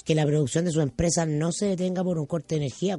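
upbeat announcer selling generators; radio ad read. Acted. Host reads the generator sponsor spot on air, announcer voice.

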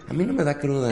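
high, soft smug mimicry; mock a smug braggart; smug know-it-all. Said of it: "persona inmamable que te dice".

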